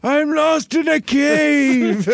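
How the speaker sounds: slow high falsetto wail; man doing a woman's voice. Acted. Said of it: "I can't really scream in a girl voice".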